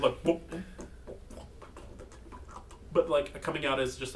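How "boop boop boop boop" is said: robot boops. Acted. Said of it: "making these different noises of".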